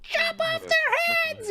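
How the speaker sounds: very high, drawn-out shriek; loud crone-like falsetto yell; yelling old lady. Acted. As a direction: heckle from the stands in a screechy old-lady falsetto.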